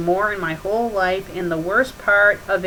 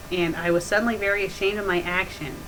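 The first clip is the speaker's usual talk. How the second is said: usual speaking voice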